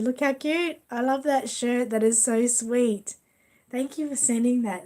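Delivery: high, loud gushing over a photo; gushing delight. Real, not acted. Looking at the photo Terry sent, gushing excitedly. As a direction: coo over the picture with delight. Sees baby photo, gushes.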